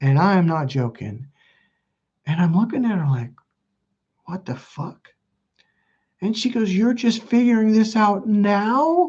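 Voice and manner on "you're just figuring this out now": high, scornful, cruel laughing mockery, drawn out. Retelling what a woman said while the speaker was in tears: imitating a woman laughing. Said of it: "she's laughing and laughing".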